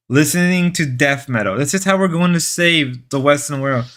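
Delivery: mock-solemn manly manifesto; rally the guys with pretend gravity; joking. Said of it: "I know I'm joking".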